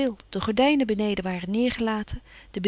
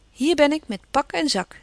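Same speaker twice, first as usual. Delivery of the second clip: bright, raised cheerful greeting; 5 semitones higher, 4 dB louder than usual. Acted. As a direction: announce your arrival gaily. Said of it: "zei ze vrolijk". (Jo begroet Laurie vrolijk)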